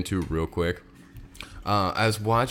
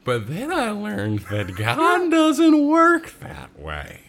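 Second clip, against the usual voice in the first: laughing; 11 semitones higher, 4 dB louder, much slower than usual. Real, not acted. Joke punchline read slowly.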